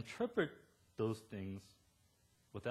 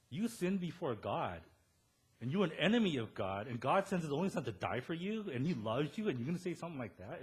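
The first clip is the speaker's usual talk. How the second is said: indignant rebuke; 4 semitones higher, 5 dB louder than usual. Retold or imitated. Retold rebuke of Christian women.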